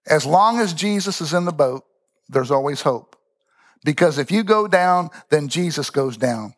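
a light take on a preacher's rising sermon close, slowing at the end; old-school Pentecostal preacher. Retold or imitated. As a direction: mildly imitate an old preacher's big finish. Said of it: "That's exactly how he said it".

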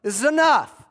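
high, loud, pleading to call it off; exasperated Pilate. Retold or imitated. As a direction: throw up your hands and shout enough.

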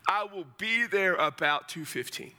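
everyday conversational answer; casual reply. Acted. Accepting an invite to watch the game, casual. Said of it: "It's casual".

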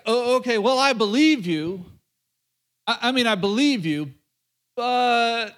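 hesitant agreement, stretching out the doubt; reluctant, stalling mock timidity. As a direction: play a wary man hedging, lightly acted. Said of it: "not timid Gideon".

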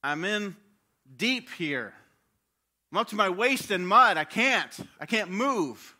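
put-on high, loud, desperate child voice; a child trapped in mud, pleading; child stuck in the mud cries for help; stuck child crying out. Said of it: "the child is going".

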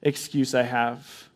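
lightly voiced Moses begging to be let off; a hint of a broken man pleading with God. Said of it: "I picture Moses is like this".

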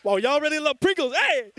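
high, loud playful shout; yelling across the room. Real, not acted. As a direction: call out over the crowd rushing up. Crowd rushing up for Pringles.

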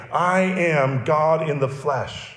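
very slow, weighty "I am God in the flesh"; deliberate solemn declaration. Acted. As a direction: spell out the claim slowly. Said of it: "what he's saying is".

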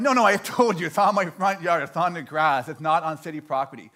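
obtuse, mildly exasperated explaining; insistent correction. Acted. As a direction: insist as if she has not understood. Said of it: "I'm telling her again".

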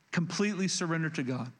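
COMPLETELY leads the phrase with the main weight; stress on COMPLETELY. Shown as a demonstration. Preacher underlining the first step for the congregation, stress on COMPLETELY. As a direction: lean on the word COMPLETELY. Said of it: "Emphasis on the word completely".

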